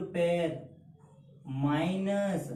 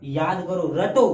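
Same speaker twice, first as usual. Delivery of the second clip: loud imitation of an impressed kid, building to a shout; mock excited pupil; 5 dB louder than usual. Child thrilled by the trick starts cramming, mock excitement.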